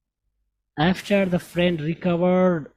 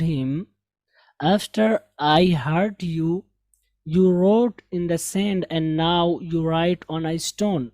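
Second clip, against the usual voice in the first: slow, careful English read-aloud; teacher rereading the passage correctly for students; slow model reading; much slower than usual. Shown as a demonstration. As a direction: read the whole story slowly as a model. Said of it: "अब मैं एक बार फिर से पढ़ता हूँ".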